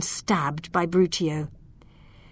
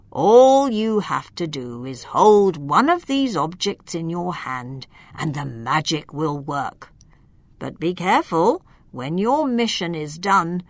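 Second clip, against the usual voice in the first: put-on wise old wizard; 3 semitones lower than usual. Wizard gives instructions.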